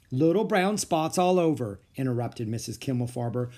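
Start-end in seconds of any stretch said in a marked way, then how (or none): 0.1-1.8 louder teacher cutting him off; teacher interrupting, a touch louder, impatient. Acted. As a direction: finish his words for him, impatient.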